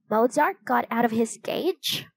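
startled, whispered question; surprised whisper. Acted. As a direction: gasp it out under your breath. Surprised question about the canary.

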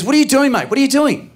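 dad at the end of his tether, voice cracking up high; exasperated father losing it at his son; furious dad. Retold or imitated. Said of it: "he just goes".

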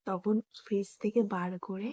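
hushed so brother can't hear; speaking quietly. Real, not acted. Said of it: "আস্তে আস্তে বলছি যাতে শুনতে না পায়".

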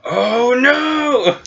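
high-pitched comic wail; mock dismay at being caught; Gosberg. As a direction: lament it, drawn out and hammed-up. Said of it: "Gosberg is like".

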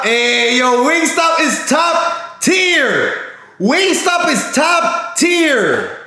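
slow, high, drawn-out hype call; hyped shout. Real, not acted. Streamer hyping Wingstop to chat, drawn-out excited shout. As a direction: sell it like the best food on earth.

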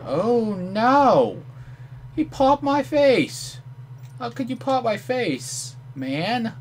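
high outraged yell at the enemy; angry yell. Real, not acted. Gamer yells at the enemy who shot his face, outraged. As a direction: shriek at him for popping your face.

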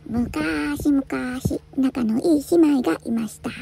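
put-on gentle old-tale narration with stretched vowels; storybook opening. Introducing two close sisters, gentle storybook narration. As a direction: open a fairy tale, lingering on the words. Opens each cat tale.

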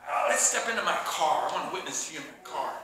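lightly voiced creep, dropping low and soft; slightly creepy invitation, trailing down low; a hint of a sinister weirdo. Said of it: "don't be weird".

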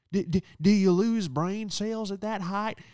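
high, slow stuttering imitation of her; mock stammer. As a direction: stammer it out mockingly. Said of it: "I go".

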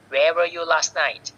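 "where were you last night" with a falling "night"; falling intonation. Shown as a demonstration. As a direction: bring the voice down on "night". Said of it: "ลงท้ายเสียงต่".

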